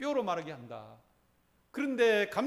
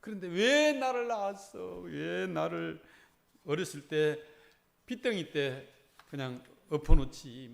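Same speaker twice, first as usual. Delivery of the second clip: put-on resentful child; 3 dB louder, slower than usual.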